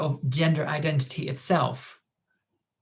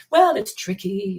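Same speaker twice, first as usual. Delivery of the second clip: slow, higher mimicked answer; mock evasive answer; 4 semitones higher, slower than usual. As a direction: draw it out as a mocking imitation.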